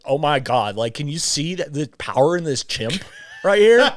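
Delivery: put-on rising, laughing Valley Girl lilt; Valley Girl Joe Rogan. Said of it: "Joe Rogan does sound kinda like a Valley Girl".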